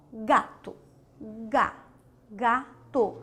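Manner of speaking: "gato" with a hard g, broken into "ga" and "to". Shown as a demonstration. Teacher contrasting the two G sounds, hard G. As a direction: isolate "Ga" before saying "gato" in syllables. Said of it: "são sons diferentes".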